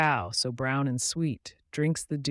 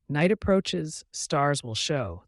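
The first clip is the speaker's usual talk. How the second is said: gentle sheep; 3 semitones higher, 5 dB louder, slower than usual. Acted. Sheep noticing nightfall, gently. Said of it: "the sheep noted gently".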